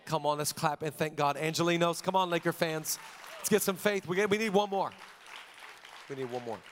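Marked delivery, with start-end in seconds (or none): 2.0-4.9 calling out to the room for one more cheer; rallying the crowd. Real, not acted. Pastor hypes crowd for applause. 6.1-6.6 softer, dropped-down echo of the call; quiet repeat. Real, not acted.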